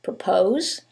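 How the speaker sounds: "propose" with POSE stressed; stress on second syllable. Shown as a demonstration. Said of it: "The first word is".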